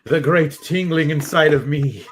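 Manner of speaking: mock Vincent Price. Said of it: "Is it just Vincent Price talking".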